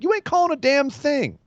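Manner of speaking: imitating Roman brushing off the referee; mock defiant. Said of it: "And Roman's like".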